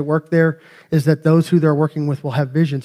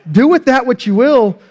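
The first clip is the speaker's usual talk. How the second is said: mock pleading; 7 semitones higher, 4 dB louder than usual. Real, not acted. Pleading with husbands, raised.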